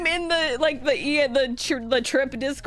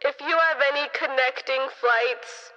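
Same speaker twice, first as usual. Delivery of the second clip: mock gate agent on a crackly PA; airline intercom announcement; 7 semitones lower than usual. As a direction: drone it deep and muffled over the intercom. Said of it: "I hear on the intercom".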